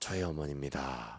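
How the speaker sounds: very quiet, very low, hushed, near-tears voice. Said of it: "김민석 성대모사를 잘 못해서".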